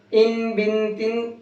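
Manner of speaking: slow: ان بن تن, each ending on ن; slow drill for students; slow nasal endings. Shown as a demonstration. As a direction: ring the ن of ان بن تن. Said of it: "نون لگا کر کے پڑھنا ہے".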